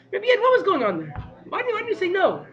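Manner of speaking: puzzled question. Retold or imitated. Chassidim question the dignitary.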